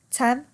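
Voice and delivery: "Tem-per-at" in three separate beats; dipecah per suku kata. Shown as a demonstration. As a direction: count out "Tem-per-at" with a gap after each syllable.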